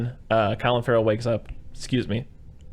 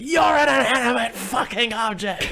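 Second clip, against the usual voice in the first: much higher, slow, drawn-out retort; mock furious yell; 14 semitones higher, 4 dB louder, slower than usual. Husband yells back at wife, mock furious retort. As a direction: yell it back, stretching every word.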